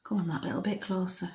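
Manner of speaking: hushed, half-whispered invitation; soft coaxing. Real, not acted. Medium urging a spirit to come closer, soft coaxing. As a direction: coax them closer under the breath.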